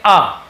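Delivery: "अ" as a short uh, firm; teacher answering with a clear uh, "अ"; vowel sound demo. Shown as a demonstration. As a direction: sound out "अ" on its own. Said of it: "क्या पढ़ते हैं".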